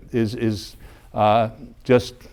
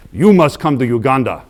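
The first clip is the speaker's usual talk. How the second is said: a hint of the visiting priest addressing his congregation; priest's pronouncement; 4 dB louder than usual. Priest calls the congregation to Uganda, lightly imitated. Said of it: "and he goes".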